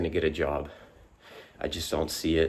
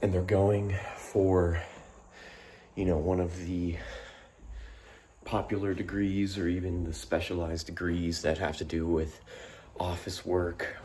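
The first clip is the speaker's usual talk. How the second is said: breathless after push-ups; out of breath; 4 dB quieter than usual. Real, not acted. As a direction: talk while catching your breath. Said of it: "Sorry, I'm out of breath".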